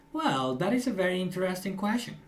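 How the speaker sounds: every key word leaned on; stressed example sentence. Shown as a demonstration. Teacher demonstrating stress for the students. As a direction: show how English stresses words. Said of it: "Stress the words".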